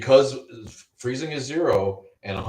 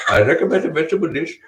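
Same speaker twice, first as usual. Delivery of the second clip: mock Indian accent, high and fast; a hammed-up Indian shopkeeper voice; quick, lilting Indian accent, raised pitch; 7 semitones higher, 7 dB louder, faster than usual. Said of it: "if I do an Indian accent".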